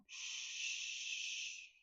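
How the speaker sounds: a sharp unvoiced shush; shushing whisper. Son hushing his sister at the TV, whispered shh. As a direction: hush her with a quick whispered shh. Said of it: "And Philip's going".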